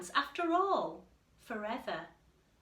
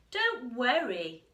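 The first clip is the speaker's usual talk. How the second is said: peep; 4 semitones higher, 11 dB louder, slower than usual. Acted. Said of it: "Mouse peeped".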